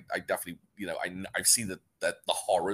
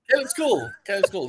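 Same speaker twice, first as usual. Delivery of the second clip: higher and louder, laughing it off; 10 semitones higher, 6 dB louder than usual. Real, not acted. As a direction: laugh and make amends. Laughing backpedal.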